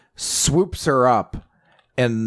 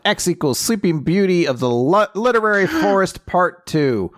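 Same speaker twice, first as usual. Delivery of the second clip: gasping, rising with excitement; breathless game-show answer; excited quiz answer; 7 semitones higher than usual. Real, not acted. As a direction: blurt the answer with a gasp. Quiz answer with a dramatic gasp.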